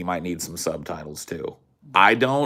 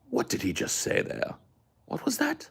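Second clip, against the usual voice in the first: baffled listener; 6 dB quieter than usual. Acted.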